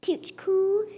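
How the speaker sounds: breathy blow over the hot bite; blown whisper. Acted. Child blowing on hot potato, whispering. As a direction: whisper it while blowing on the fork.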